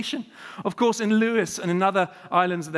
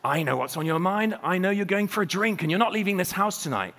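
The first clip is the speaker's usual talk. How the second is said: put-on wife scolding in a light accent; lightly accented Hebridean wife. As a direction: slip back into the islander's accent. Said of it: "it's come back".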